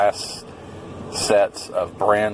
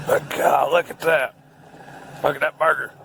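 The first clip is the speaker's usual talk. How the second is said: higher, gleeful look at that; excited; 5 semitones higher than usual. Real, not acted. Vlogger showing off his burger to viewers, giddy and higher. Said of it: "I'm just excited about this burger".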